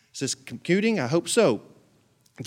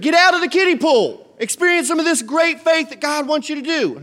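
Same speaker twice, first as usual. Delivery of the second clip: weird voice; 9 semitones higher, 5 dB louder than usual. Acted. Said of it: "I'm getting a little weird now".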